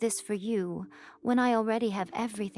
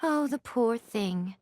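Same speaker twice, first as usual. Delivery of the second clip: slow, teasing mock sympathy; mock pity; slower than usual. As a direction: drawl out fake pity, enjoying the joke. Mocking pity over the Shogun.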